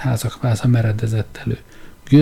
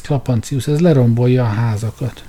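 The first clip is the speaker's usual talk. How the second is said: alarmed cry, raised; 3 dB louder than usual. Acted. Trull to Klapancius, alarmed cry. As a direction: Trull gasps at the wrecked houses.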